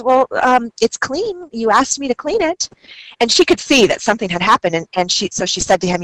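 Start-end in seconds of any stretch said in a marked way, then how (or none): 0.0-2.7 a touch of nervous, higher voice. Retold or imitated. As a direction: retell a nervous student's excuse, lightly. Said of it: "he nervously responds".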